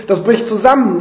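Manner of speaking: high, loud alarmed call; Rufen. A narrator's reading. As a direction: shout a warning of collapse. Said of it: "Felix ruft". (alarmiert und laut gerufen)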